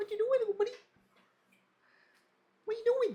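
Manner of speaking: squeaky, very high-pitched dog-talk voice. Speaker talks to a golden retriever: high-pitched voice. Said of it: "High pitched voice".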